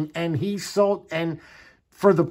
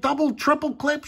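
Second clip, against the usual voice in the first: imitating wife; 11 semitones higher than usual. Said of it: "She's like".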